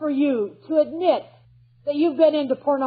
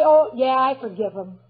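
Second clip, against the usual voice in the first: glib. Retold or imitated. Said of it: "we can say very glibly".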